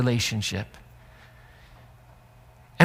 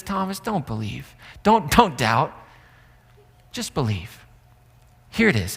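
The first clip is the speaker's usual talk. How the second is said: tender; 3 semitones lower than usual. Acted. Jesus gently restoring Thomas.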